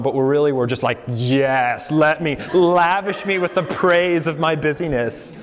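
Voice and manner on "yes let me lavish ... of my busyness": lightly mock a vain busy person fishing for compliments; preacher mimics a congregant craving praise, in a hammed-up voice; mock self-important plea. Mocking self-important busy people.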